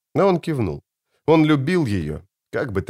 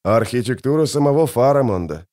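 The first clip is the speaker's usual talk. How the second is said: plain reading voice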